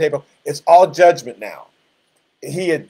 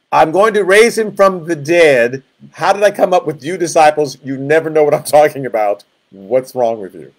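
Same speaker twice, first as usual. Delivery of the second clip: exasperated; 4 dB louder than usual. Acted. Jesus to disciples who never understand, mock exasperation. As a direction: act out a teacher losing patience.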